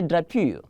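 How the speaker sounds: "drapeau" said as dra-pyoo; the mistaken "drapeau", with OO instead of O; common mispronunciation. Shown as a demonstration. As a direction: end "drapeau" like English "pew". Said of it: "tempted to say drapeau".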